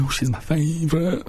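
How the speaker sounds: quick Irish accent impression; tossed off in an Irish accent; the speaker's Irish accent. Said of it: "Well, in an Irish accent".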